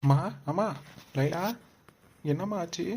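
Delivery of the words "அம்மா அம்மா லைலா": loud worried call, pitch up. Acted. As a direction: shouts for mom as he rushes in. Son calling out for mother.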